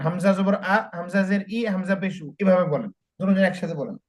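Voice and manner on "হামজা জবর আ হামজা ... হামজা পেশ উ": steady chanted letter-and-vowel drill; drill recitation. Shown as a demonstration. Teacher modelling the drill for two students. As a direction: recite it clearly for students to copy. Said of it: "হরফ সহই বলেন".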